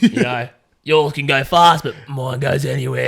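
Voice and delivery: loud, lightly put-on four-by-four driver; cocky driver. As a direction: brag loudly like a mock off-road driver. Mock boast of four-by-four driver.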